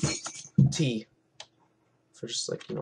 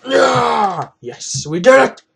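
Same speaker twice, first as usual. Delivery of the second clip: higher, louder victory whoop; cheering after beating the level; excited cheer; 8 semitones higher, 7 dB louder, much slower than usual. Real, not acted. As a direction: celebrate the win. Clears a level in the game.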